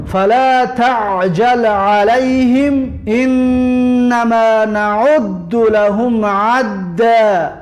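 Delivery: slow, drawn-out chanted recitation; measured tajwid chant; Quran recitation. Acted. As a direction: intone each verse slowly and evenly.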